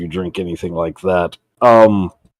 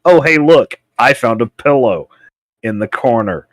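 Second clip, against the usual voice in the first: excited discovery; 6 semitones higher, 6 dB louder than usual. Retold or imitated. Acting out finding a pillow.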